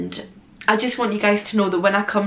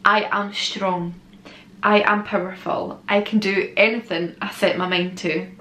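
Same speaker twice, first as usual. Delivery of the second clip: affirmation reading. Acted. Reads affirmations aloud.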